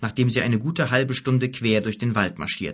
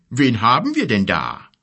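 rumbling giant; 5 dB louder than usual. A narrator's reading. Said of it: "mit tiefer, grollender Stimme".

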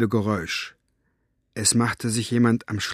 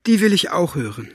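trembling voice; 8 semitones higher, 4 dB louder than usual. A narrator's reading. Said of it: "sagte Elinor mit zitternder Stimme".

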